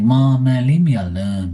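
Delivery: loud exasperated brush-off; annoyed yell at mom. Retold or imitated. Son loudly brushing off mom's nagging about shaving, annoyed yell. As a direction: tell mom to back off, loudly. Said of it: "I'm like".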